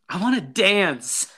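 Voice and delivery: high, slow, drawn-out quote; imitated movie confession. Podcaster imitating Mike answering in the car, slow high blurt. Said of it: "just the way he says that".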